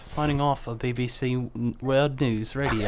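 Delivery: put-on British newsreader accent. Pretending to end a broadcast, British announcer accent. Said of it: "three people literally doing British accents".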